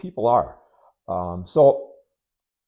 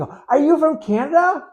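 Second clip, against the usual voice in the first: curious local asking; 5 dB louder than usual. Retold or imitated. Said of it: "we go to Canada and we start talking".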